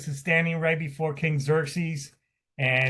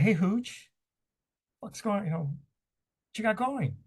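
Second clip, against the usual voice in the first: casual, higher, slow easy greeting; nonchalant; 7 semitones higher, 3 dB quieter than usual. Retold or imitated. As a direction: breeze in like nothing's wrong. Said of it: "he came in very nonchalant".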